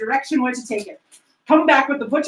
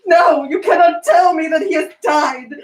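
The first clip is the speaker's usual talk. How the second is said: anguished protest; 2 semitones higher, 5 dB louder than usual. Acted. Scrooge defies news of death.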